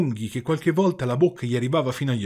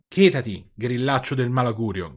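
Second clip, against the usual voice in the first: louder snapping shout at "grillaccio"; 3 dB louder than usual. Acted. Pinocchio shouting to silence the cricket, loud. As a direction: yell "Chetati", hit "grillaccio" hard. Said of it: "gridò Pinocchio".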